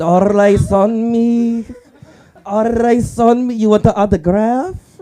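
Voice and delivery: high, slow, drawn-out star voice; mock lookalike of a famous rapper. Comic imitating a celebrity lookalike to the crowd, hammed-up slow high star voice. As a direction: ham up a fake rapper, stretching it out.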